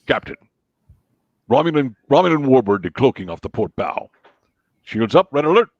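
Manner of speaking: lightly voiced Klingon officer; understated starship battle-report voice; Worf. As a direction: report to the captain like a security officer. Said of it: "but Worf is".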